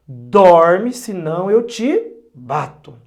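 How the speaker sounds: put-on loud, slow threatening shout at a child; angry threat. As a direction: bark the threat like a worn-out parent. Pai cansado ameaçando o filho. (grito bravo e ameaçador de pai cansado)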